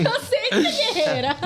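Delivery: high-pitched words through laughter; laughing. Real, not acted. Joking about being called a warrior, laughing. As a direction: say it while cracking up.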